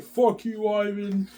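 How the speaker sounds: high, loud imitation of an angry wife; mock an outraged wife cursing her husband; pissed-off wife. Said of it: "then she's pissed off".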